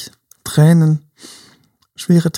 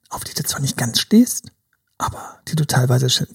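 whisper; 3 semitones lower, 5 dB quieter than usual. Retold or imitated. Conspiratorial aside in advice.

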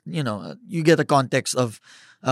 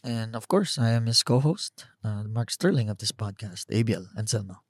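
whispering; 2 semitones lower, 8 dB quieter than usual. Real, not acted. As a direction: say it softly like a secret. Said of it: "why are you whispering?".

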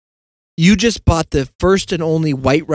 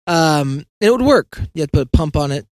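ordinary talk, nothing marked

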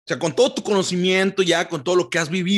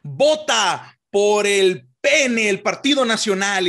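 campaign slogan; slower than usual. Retold or imitated.

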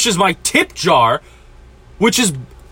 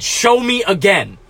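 slow demand. Retold or imitated. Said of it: "He actually fucking said".

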